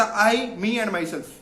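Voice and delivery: a light imitation of Salman Khan's filmy delivery; Salman Khan line. Coach quoting Salman Khan to students, mild filmy impression. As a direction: borrow the star's famous line, lightly voiced. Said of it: "ایک تیسری چیز بھی include کرتے ہیں سلمان خان والی".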